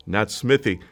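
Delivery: "Smithy" with a short i and a final ee; the rejected "Smithy"; wrong name Smithy. Shown as a demonstration. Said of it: "but Smythe".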